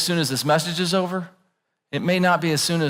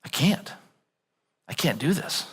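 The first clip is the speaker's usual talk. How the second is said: much softer, giving up; soft admission; 8 dB quieter than usual. Retold or imitated. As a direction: quietly admit you can't. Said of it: "humility says".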